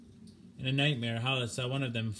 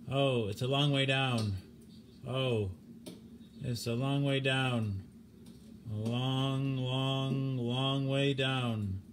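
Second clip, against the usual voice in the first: despairing moan; much slower than usual. Acted. Stimson moaning while falling.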